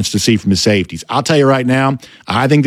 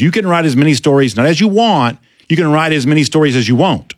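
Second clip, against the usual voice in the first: imitated Georgia drawl; 4 semitones higher than usual. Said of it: "This is the way we used to talk".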